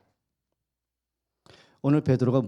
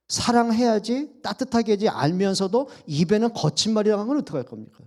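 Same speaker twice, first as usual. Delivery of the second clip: impassioned; 6 semitones higher than usual. Acted. Impassioned preaching about parents' anger.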